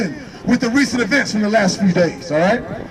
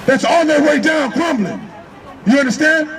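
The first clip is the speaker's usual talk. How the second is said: rising preacher's call, punching each phrase; fiery street preaching; 3 semitones higher than usual. Acted. Street preacher to the crowd, fiery and punchy. Preaching against Cain's spirit.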